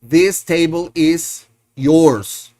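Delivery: slow classroom model sentence. Shown as a demonstration. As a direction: spell it out slowly for learners. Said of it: "the other sentence would be".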